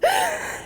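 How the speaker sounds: high, tearful burst of breath; real sob caught between crying and laughing; short choked gasp through tears; emotional outburst. Real, not acted. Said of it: "I'm very emotional".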